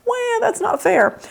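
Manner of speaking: high, slow whiny protest; whiny teen. Retold or imitated. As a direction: drag out the whine. Kid's whiny protest quoted.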